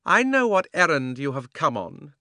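cold, commanding witch; a scheming sorceress speaking. A narrator's reading.

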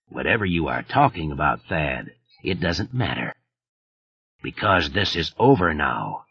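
slow with weight on each word; deliberate, emphatic. A narrator's reading. Killer ending the call, slow and emphatic. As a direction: lay every word down heavily. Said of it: "slowly, with great deliberation and emphasis".

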